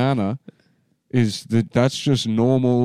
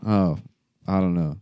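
usual speaking voice

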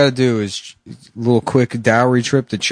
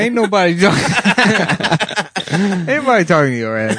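laughing; 6 semitones higher than usual. Acted. Acted quarrel.

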